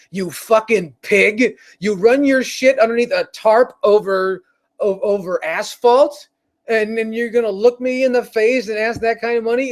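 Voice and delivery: a touch of a wrestler's angry rant; scornful trash talk at a greedy seller; Roddy Piper rant. Acted. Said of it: "channeling my inner Piper".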